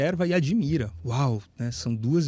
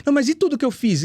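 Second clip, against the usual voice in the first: protesting man; 10 semitones higher, faster than usual. Retold or imitated. Man protesting his deeds to Jesus, in a raised voice. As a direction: plead your case in a raised voice.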